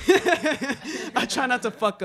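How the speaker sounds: slow, laughing through the words. Real, not acted. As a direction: chuckle as you admit it. Laughing at his own injury.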